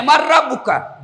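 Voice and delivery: laughing while echoing the shouted question; half-laughing as he reports it to God; retold question with a laugh. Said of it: "Ya Allah, ada hambamu mati".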